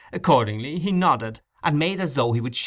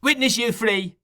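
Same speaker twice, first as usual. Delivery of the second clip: cried out; 10 semitones higher than usual. A narrator's reading. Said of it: "cried the boy, shaking his clenched fist".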